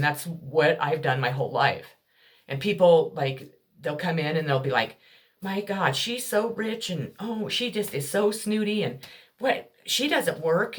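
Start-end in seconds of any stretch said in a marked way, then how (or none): 5.4-10.8 higher, sneering mimicry of gossiping neighbours; mock their snooty gossip, drawing out the last line. Imitating people who gossip about her, mocking and snide.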